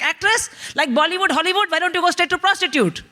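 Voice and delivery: high-pitched, scandalised Indian mum; appalled mother. Retold or imitated. Mother reacting to daughter's acting dream, appalled. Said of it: "My mother was like".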